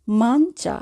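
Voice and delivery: মাঞ্চা with the ending said like "cha"; pronunciation demo. Shown as a demonstration. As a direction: say মাঞ্চা, ending as in the word for tea. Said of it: "চায়ের মতো করে হবে".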